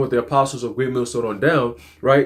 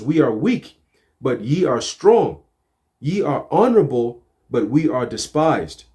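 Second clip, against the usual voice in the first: slow, solemn verse reading; scripture reading; slower than usual. Acted. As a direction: read the verse slowly and deliberately.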